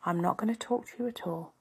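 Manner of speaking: whispered refusal to talk; sulky whisper. Retold or imitated. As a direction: breathe it out like giving the silent treatment. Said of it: "I go into silent treatment and I'm like".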